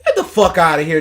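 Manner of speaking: scoffing through a laugh; laughing dismissal. Real, not acted. Scoffing at the pundit's claim, laughing. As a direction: laugh it off in disbelief.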